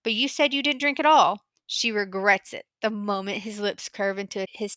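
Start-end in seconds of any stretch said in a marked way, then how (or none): 0.0-1.4 higher, louder puzzled objection. A narrator's reading. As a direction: question it, mildly baffled. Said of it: "not understanding".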